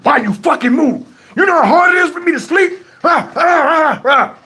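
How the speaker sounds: high mock outburst; imitating ballistic girlfriend. Woken girlfriend chewing out her boyfriend, high-pitched mock rant. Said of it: "Tony wakes up and goes ballistic".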